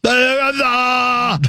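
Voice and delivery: super slow, high drawn-out sloth voice; sloth impression. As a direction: stretch each syllable out like a sleepy sloth. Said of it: "will you do your sloth impression".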